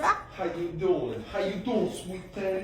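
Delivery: high, drawn-out flirty greeting; playful flirting. Pretend. Husband walks in on wife cooking, hammed-up flirting.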